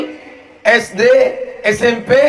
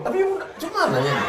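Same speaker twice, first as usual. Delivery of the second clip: trying not to laugh; 9 semitones higher, 8 dB quieter, faster than usual. Real, not acted. Reading a question, laughs.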